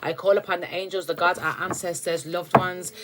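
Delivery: measured, reverent calling on angels and ancestors; invocation prayer. Acted. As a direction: pray it out, steady and solemn. Opening prayer to angels before reading.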